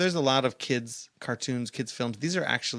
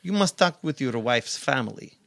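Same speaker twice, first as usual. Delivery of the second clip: put-on Russian accent. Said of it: "Gru is definitely Russian".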